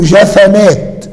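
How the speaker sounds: "جفنات" with a short a after the ف; middle letter vowelled. Shown as a demonstration. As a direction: open up the middle of "جفنات": ja-fa-naat. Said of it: "بفتح العين". (نطق "جفنات" بفتح الفاء)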